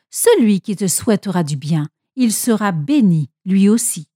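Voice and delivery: bénédiction solennelle, plus posée; déclaration solennelle. A narrator's reading. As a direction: termine la bénédiction avec gravité. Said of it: "et déclara solennellement". (ton solennel et mesuré)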